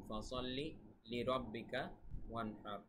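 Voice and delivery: ফাসাল্লি, লিরাব্বিকা, ওয়ানহার with pauses between; word by word. Shown as a demonstration. Teacher shows students where words divide, word by word. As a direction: separate the three words evenly, unchanted. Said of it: "শব্দটা কিন্তু এরকম".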